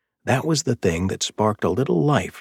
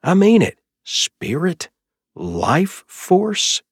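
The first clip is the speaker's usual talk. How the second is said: high, loud mocking disbelief; incredulous; 12 semitones higher, 5 dB louder, much slower than usual. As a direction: scoff at the words. Mocking brother's new-age words.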